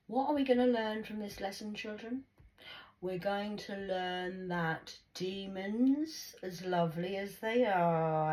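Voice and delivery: a hint of slow, singsong teacher; lightly voiced teacher talking to little children; schoolteacher to children. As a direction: spell it out slowly for the class. Plays teacher addressing children.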